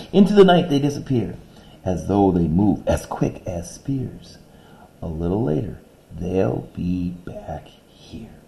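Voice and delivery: lively reading that drops to a whisper at the end; poem reading. Shown as a demonstration. Teacher reading the stanza, whispering the last line. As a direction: read it brightly, then hush the last line.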